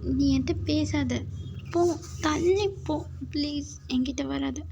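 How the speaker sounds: acted hurt, angry rebuff; cross dismissal easing into a plea. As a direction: refuse to let them come near. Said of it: "கோவமா இருக்கேன்னு சொல்றேன்ல".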